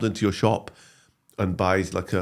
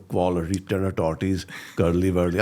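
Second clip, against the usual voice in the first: a light Glaswegian Asian lilt on the catchphrases; relishing the Glaswegian Asian catchphrases, lightly voiced; Naveed's Glaswegian Asian accent; 3 semitones lower than usual. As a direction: savour each word in a mild Glaswegian Asian accent. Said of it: "I just loved saying it".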